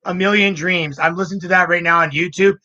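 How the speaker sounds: bright, high excited voice. Retold or imitated. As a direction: gush about the song. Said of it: "just says".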